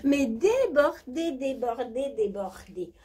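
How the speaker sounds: high, breathy posh diva voice; hammed-up high society diva; rich diva character. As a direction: play a spoiled jet-set lady bragging. Plays a rich Dubai diva.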